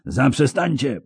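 high-pitched cry to stop; high yelled command; yelling. A narrator's reading. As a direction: shout it high, desperate to break up a fight. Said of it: "wrzeszczał Jaskier".

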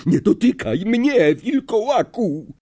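high, alarmed cry; gasped warning. A narrator's reading. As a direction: recoil and force the words out in horror. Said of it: "Ron wydyszał".

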